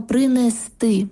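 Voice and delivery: принести drawn out slowly, stressed on the final сти; final-syllable stress. Shown as a demonstration. Language expert teaching stresses, last syllable stressed in принести. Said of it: "наголос на останній склад".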